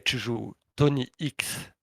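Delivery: slow, drawn-out doom verdict; ominous announcement. Retold or imitated. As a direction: spell out the bad news like a sentence. Frère annonce l'adversaire redouté. (annonce lente et menaçante)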